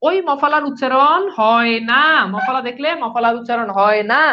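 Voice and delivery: said very slowly, word by word; slow emphatic rule. Shown as a demonstration. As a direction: spell out the rule slowly for students.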